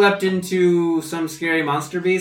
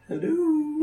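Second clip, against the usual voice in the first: hello pitched way up; high called hello; 13 semitones higher than usual. Acted. Dwarf knocking on the cell door, a high called hello. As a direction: call it through the door, high up.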